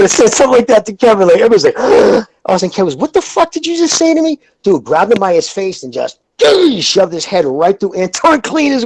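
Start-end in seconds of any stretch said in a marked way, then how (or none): 2.9-4.4 high, hammed-up outraged voice; mock the disbelieving challenge up high; imitated indignant friend.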